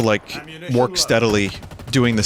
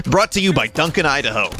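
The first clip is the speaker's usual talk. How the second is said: radio ad read; 3 semitones higher than usual. Pretend. Parody sponsor read on radio.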